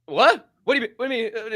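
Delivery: can't believe what he just heard; high astonished what; disbelieving. Retold or imitated. Disbelief at friend's calm answer.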